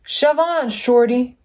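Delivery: a hint of a pushy bus calling out; mild yell. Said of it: "yelled the double-decker bus".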